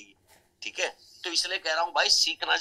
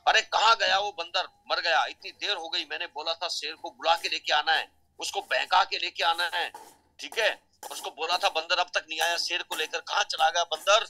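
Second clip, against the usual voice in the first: mild acted shout for the missing monkey; raised voice, searching for the monkey; calling out loudly; 3 semitones higher than usual. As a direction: call out, louder at the start. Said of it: "जोर जोर से चिल्लाने लग गया".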